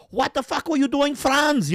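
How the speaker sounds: high, angry barked question; shouty German soldier. Retold or imitated. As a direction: yell at your comrade in a high voice. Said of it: "these guys come back".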